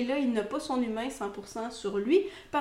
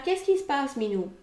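higher pet-talk question, falling on the name; attentive dog owner; 3 semitones higher than usual. Acted. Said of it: "on va faire". (maître qui s'adresse à son chien, voix aiguë)

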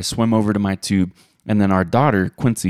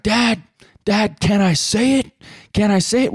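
put-on high, eager girl's voice with rising questions; daughter's eager voice; 13 semitones higher than usual. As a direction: play the excited kid begging permission, pitched up. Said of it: "she's like".

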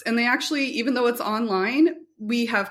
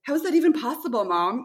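amazed daughter; 5 semitones higher than usual. Retold or imitated. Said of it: "she's like".

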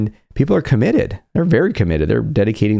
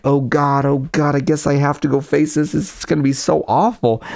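mock dread; 4 semitones higher than usual. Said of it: "not like".

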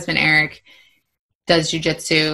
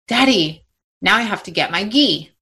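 lightly voiced kid, higher on the first word; imitated small child; 4 semitones higher than usual. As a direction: retell it like an eager little kid. Retold excited child after class.

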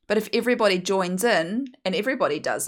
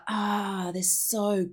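exaggerated gushing. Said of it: "in that, like, exaggerated way".

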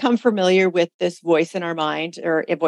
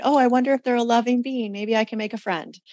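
lightly voiced naive higher self, quicker and higher at first; 5 semitones higher than usual. Higher self wondering about a stranger following at night, lightly voiced. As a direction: play a hint of a trusting inner voice. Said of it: "maybe the higher self going".

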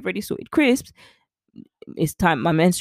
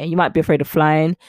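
"flying" said by mistake in place of "failing"; the misspoken take, "flying" instead of "failing"; slip of the tongue; 5 dB louder than usual. Shown as a demonstration. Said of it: "is what I was trying to say".

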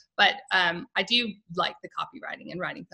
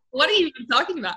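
retold incredulity, higher and fast; mock bafflement; 5 semitones higher, 6 dB louder, much faster than usual. Wife recalling not understanding her husband's accent, mock bafflement. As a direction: blurt it out, playfully exasperated.

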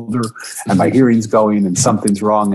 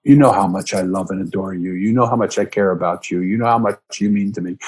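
loving plea; 2 semitones lower than usual. Retold or imitated. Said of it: "with all the love in my heart".

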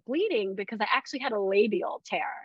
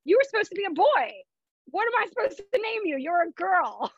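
retold crying; 9 semitones higher than usual. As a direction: replay the teary shock of a surprise girl, much higher. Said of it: "girl, I start crying".

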